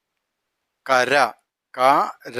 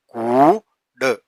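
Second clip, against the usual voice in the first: കൂട് stretched very slowly; drawn out; much slower than usual. Shown as a demonstration. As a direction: hold every sound of കൂട്. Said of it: "drawn-out reading demo".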